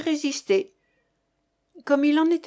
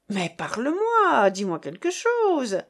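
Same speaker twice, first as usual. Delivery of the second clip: exclaiming; 2 semitones higher than usual. Acted. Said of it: "s'écriait de Pontmarie".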